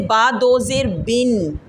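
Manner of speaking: slow teacher's model, drawing out the end of बिन; model recitation. Shown as a demonstration. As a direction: say बिन slowly without pushing it into the nose. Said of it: "वैसे ही पढ़ें". (बिन को ठहरकर, नाक में ज़्यादा लिए बिना पढ़कर दिखाना)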